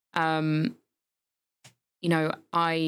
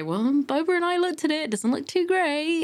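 unimpressed; 10 semitones higher than usual. Retold or imitated. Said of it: "I did say".

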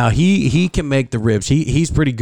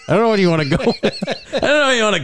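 laughing; 5 semitones higher, much faster than usual. Real, not acted. Laughing through the line.

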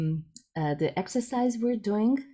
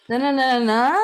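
sing-song na-na-na, higher and louder; rising sentence tune; 5 semitones higher, 6 dB louder than usual. Retold or imitated. Guest showing how Cardiff sentences end, rising sing-song tune. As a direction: mimic a lilting sentence that lifts at the end. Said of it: "it goes up in the end".

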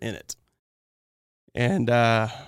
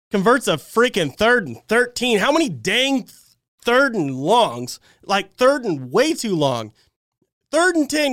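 exasperated rant; 6 semitones higher than usual. Real, not acted. Ranting about opponent's third downs.

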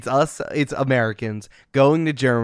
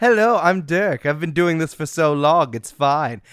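Dirk impression; 3 semitones higher than usual. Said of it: "if I try it too hard".

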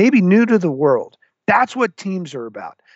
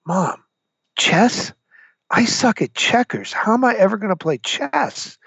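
mock whiny kid, pitched higher; retelling himself as a twelve-year-old whining about chess; whiny pity party; 6 semitones higher than usual. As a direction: play his younger self whining to mom. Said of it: "I go into full pity party mode".

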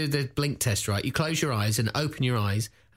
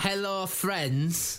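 slow typing voice; 5 semitones higher, 3 dB quieter, much slower than usual. Pretend.

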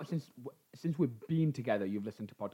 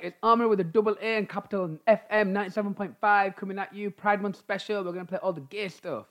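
radio DJ; 6 semitones higher than usual. Retold or imitated. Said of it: "I was like".

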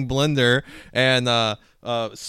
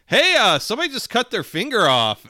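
retold alarmed call; 9 semitones higher, 7 dB louder than usual. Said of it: "the guy came from the production floor and was like".

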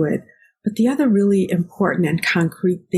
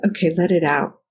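put-on gently coaxing a hurt child, rising a little on let it out; a light demo of comforting a toddler; soothing parent. Shown as a demonstration. Mom comforting her child who fell off the swings, soothing. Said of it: "the right response is".

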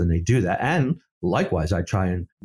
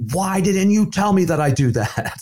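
louder, higher retold protest; wife's mock complaint, louder and higher; mock indignant wife; 8 semitones higher, 4 dB louder than usual. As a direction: play the wife's half-joking accusation. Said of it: "She said".

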